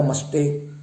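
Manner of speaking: मस्टेक with a k at the end; common mispronunciation. Shown as a demonstration. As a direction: close मस्टेक on a k. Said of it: "बोलते हैं".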